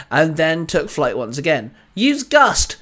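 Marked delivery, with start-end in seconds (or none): 1.9-2.8 much higher, louder attack call. A narrator's reading. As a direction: kid shouting his command. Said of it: "Sam called out".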